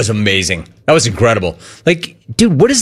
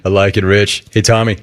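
a hint of Rich's lower voice, carried over into the question; 5 semitones lower than usual. Host teasing Tommy, still lightly in Rich's voice. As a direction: keep talking in Rich's voice by accident. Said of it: "I'm still talking with Rich's voice".

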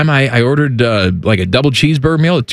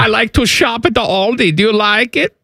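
put-on German accent. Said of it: "Hi, Wolfgang".

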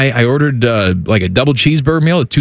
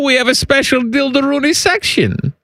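put-on German accent.

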